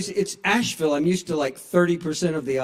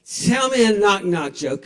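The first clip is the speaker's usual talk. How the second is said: put-on drunk demand; 4 semitones higher, 6 dB louder than usual.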